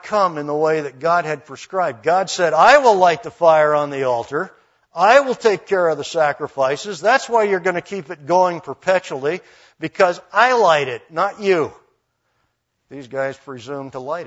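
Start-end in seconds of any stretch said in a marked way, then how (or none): 2.5-11.7 mildly raised, forceful voice of authority; firm, emphatic declaration; forceful decree. Acted. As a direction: lay down the law, leaning on "I". God's decree retold with force.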